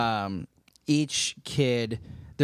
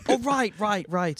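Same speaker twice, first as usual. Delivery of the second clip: tag; 7 semitones higher than usual. Acted. Actress flustered by director.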